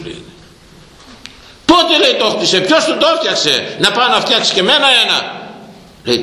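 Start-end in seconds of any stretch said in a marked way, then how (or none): 1.6-5.4 much higher, fast, excited questions; amazed outburst. Acted. King's brother asking who built the palace, astonished. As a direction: blurt out the questions in disbelief.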